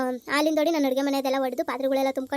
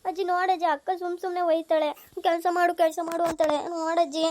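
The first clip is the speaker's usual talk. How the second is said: tearful complaint. Acted. Younger sister tells grandmother on elder sister, tearful complaint. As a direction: whimper to win sympathy. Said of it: "ಯಾಕಮ್ಮ ಹಿಂಗ್ ಅಳ್ತಿದ್ಯಾ".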